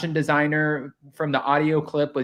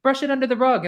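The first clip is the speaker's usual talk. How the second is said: put-on high, airy British accent, sweetly dismissive; high mock British accent waving away the upset; 10 semitones higher than usual. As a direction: purr it like a posh British hostess brushing it off. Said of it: "this British, you know, accent".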